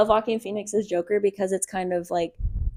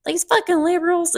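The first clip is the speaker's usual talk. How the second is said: high-pitched mock conservative indignation; Fox News outrage; 8 semitones higher than usual. Mimicking a Fox News story for friends, mock outrage. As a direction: pitch it up as a ranting right-wing headline. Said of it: "Fox News, and it'll be, like".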